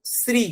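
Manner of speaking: শ্রী with the tongue at the teeth, a crisp s-ri; dental s. Shown as a demonstration. Teacher demonstrating the name for the class. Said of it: "তবেই উচ্চারণটা বেরোবে".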